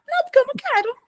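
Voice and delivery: high, playful mock refusal; stubborn refusal. Refusing mom's coffee, high playful refusal. Refusing again, acted quote.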